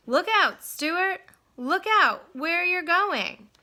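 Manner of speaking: loud, high shouted warning; urgent warning yell. Acted. Crowd warning Stuart of danger, loud yell. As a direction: yell it before the crash.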